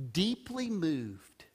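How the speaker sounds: "Deeply moved" said slowly and softly, each word weighed; slow stress on phrase. Shown as a demonstration. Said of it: "notice a little phrase there".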